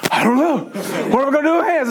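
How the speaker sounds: put-on high-pitched puzzled kid voice; clueless son. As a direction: imitate a boy with no idea. Clueless son answers, acted.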